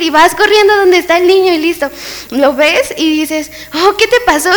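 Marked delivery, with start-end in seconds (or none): 3.7-4.5 higher-pitched worried question; hammed-up concern; acted alarm. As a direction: play at fussing over a hurt child. Rushes to the injured child.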